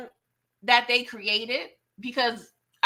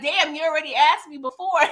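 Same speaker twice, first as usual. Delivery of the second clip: laughing through an irritated quote; half-laughing retort, amused; 5 semitones higher than usual. Retold or imitated. Carter brushing off a repeated question, laughing.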